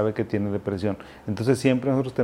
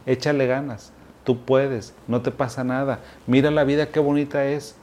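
lightly voiced breezy cheer, a touch higher; mock cheerful pep talk; 4 semitones higher than usual. Friend brushing off a depressed person, mock upbeat cheer. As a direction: brush off the pain with sunny encouragement. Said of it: "la peor frase es".

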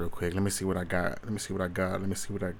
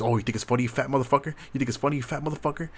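cousin's taunt, hammed up, rising and faster at the end; imitating a cousin mocking him for laughing at a video game; 3 semitones higher, much faster than usual. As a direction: jeer it like the cousin did, mildly heated. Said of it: "He goes".

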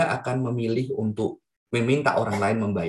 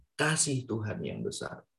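soft slow echo; 9 dB quieter than usual. Shown as a demonstration.

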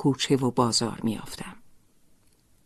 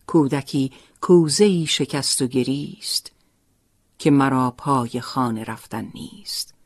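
poem recitation. Acted. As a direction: recite it line by line as verse. Recites the poem she wrote.

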